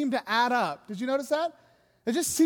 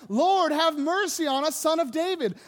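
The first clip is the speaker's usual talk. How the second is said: higher-pitched acted plea; calling out; 4 semitones higher, 3 dB louder than usual. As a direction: call out for mercy over a crowd. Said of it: "they call to Him".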